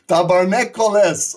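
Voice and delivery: excited Quebec curse. Real, not acted. Cheering the big drop.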